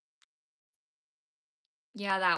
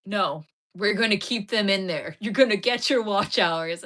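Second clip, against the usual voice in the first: quoting the manager; 9 dB louder than usual. Retold or imitated. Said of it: "and he's like".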